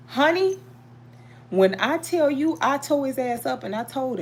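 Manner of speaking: high emphatic call. Real, not acted. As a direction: rise up high to stress the point. Excited storytelling emphasis.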